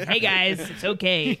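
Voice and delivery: lightly put-on New York accent; loud, playful New York greeting. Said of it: "that's my New York accent".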